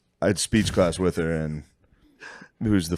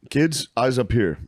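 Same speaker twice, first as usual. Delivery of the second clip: mock teacher; 4 semitones higher than usual. Mock teacher addressing kids.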